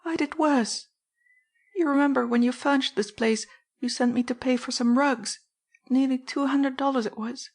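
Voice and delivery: desperate mother explaining herself; pleading housekeeper. Acted. Mrs Kinney confessing.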